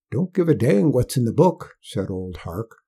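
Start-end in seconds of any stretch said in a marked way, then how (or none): 0.1-1.8 put-on higher folksy old man; a stubborn backwoods old-timer; old country man. Old Hark voiced by narrator.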